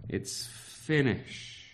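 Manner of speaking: slow, breathy near-whisper "It's finished"; hushed awe. Acted. Preacher to children on Jesus' final cry, hushed awe. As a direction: let "It's finished" sink in, hushed and reverent.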